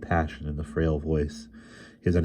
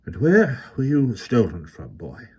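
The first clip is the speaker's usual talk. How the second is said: put-on old man, soft and lisping, heavy Welsh accent; 5 semitones higher than usual. A narrator's reading. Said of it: "soft and lisping with a heavy accent".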